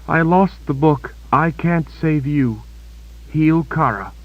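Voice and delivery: dying Kaelin begging Richard to heal Kara; pleading young woman. A narrator's reading. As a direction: beg him, blaming herself. Kaelin holding back tears.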